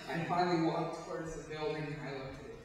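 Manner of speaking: loud, intense stage telling, swelling; building desperation. Acted. Narrator pulled back towards the building, building desperation.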